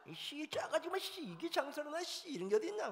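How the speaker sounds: high, loud Gyeongsang-do customer grumbling; acted angry griping. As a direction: cuss and complain loudly about the salty food. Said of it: "경상도는 뭔 좋냐면 다시 가는 건 좋은데 소리 지르는 건".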